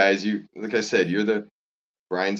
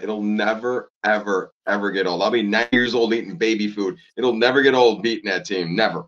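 raised, insistent voice; emphatic yelling; 4 dB louder than usual. Real, not acted. Lifelong fan on beating that team, emphatic and raised. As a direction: hammer each word like a proud fan. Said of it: "I'm yelling it in the parking lot".

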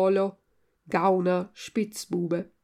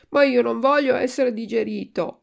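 louder, protesting wail; tearful yell; 3 semitones higher, 7 dB louder than usual. A narrator's reading. Puppet refuses to be digested, yelling tearfully. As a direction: cry out in protest, a little whiny. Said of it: "urlò Pinocchio, ricominciando a piangere".

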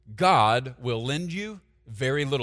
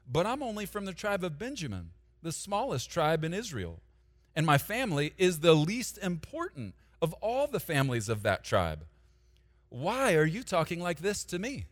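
self-pitying whine; 3 semitones higher than usual. Shown as a demonstration. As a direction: shrink away from the calling. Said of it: "this is how a lot of us talk".

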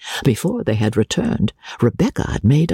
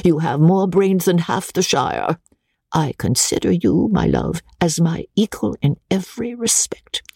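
put-on delighted old lady. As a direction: coo over her new favourite. Old lady flattering Becky.

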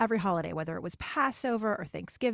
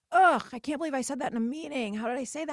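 higher, louder exasperated groan; self-scolding groan; 4 semitones higher, 5 dB louder than usual. Retold or imitated. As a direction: berate yourself after the meeting. Self-critical inner voice.

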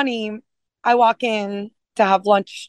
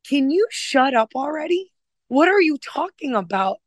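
exasperated teasing; 6 semitones higher than usual. Retold or imitated. Retelling teasing the chef friend.

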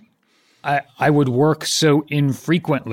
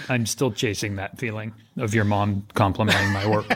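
laughing; 5 semitones lower, 6 dB quieter than usual. Real, not acted. Teasing about mom's compliment.

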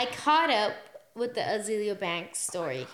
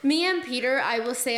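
laughing; 5 semitones higher, 3 dB louder than usual. Real, not acted. Laughing while restarting.

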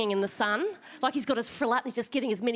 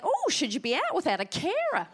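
condescending; 5 semitones higher than usual. Retold or imitated. Mocking what everyone says.

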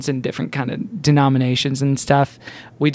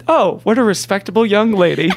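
put-on homeschool boy; 4 semitones higher than usual. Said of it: "like from a homeschool mail-in".

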